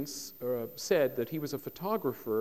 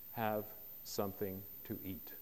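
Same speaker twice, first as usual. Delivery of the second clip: croaky voice; 5 semitones lower, 11 dB quieter than usual. Retold or imitated. Singer greets his biographer backstage, imitated low croaky voice. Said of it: "in that croaky voice".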